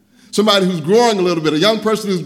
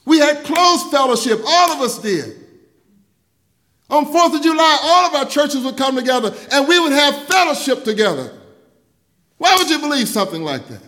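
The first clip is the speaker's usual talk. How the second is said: higher, driving preacher voice, rising to a shout on fellowship; impassioned preaching; 6 semitones higher than usual. Acted. Pastor rousing his congregation about broken fellowship, impassioned preaching.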